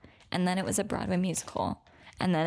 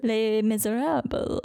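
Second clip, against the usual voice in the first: attempted French accent. Shown as a demonstration. Cohost naming the musical for her friend, attempted French accent. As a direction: try hard at a French "Miserables", stretching it. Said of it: "I can't do a French accent".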